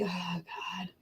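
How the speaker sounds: unvoiced whispered oh God; whispered disgust at the taste; whispered groan. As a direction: breathe it out in disgust. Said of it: "And I'm like".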